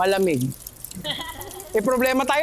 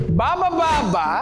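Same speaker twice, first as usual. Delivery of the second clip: a driver's call, drawn out slowly; jeepney driver calling out; slower than usual. Shown as a demonstration. Teacher playing a driver calling to passengers. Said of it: "Sabi nung driver".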